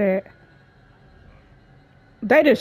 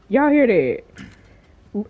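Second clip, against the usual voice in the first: drawn out very slowly; slow, wary; 4 semitones lower, much slower than usual. Real, not acted. Gamer asking viewers whether they hear it, slow and wary. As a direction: stretch it out while listening. Repeats slowly, listening warily.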